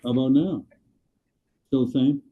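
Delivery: underwater mic sound; muffled through a bad mic. Real, not acted. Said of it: "Still underwater".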